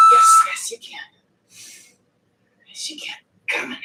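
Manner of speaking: shouted encouragement to herself, pushing through; loud self pep talk. Real, not acted. Cheering herself on through a heavy lift, loud. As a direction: yell yourself through the rep.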